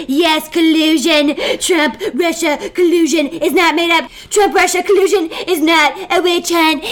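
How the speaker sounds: rising, emphatic gleeful admission; excited. Acted. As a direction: build up eagerly, laughing. Trump gleefully admitting collusion.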